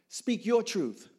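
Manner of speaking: slow, loud, high command; insistent urging. Retold or imitated. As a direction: press each word home.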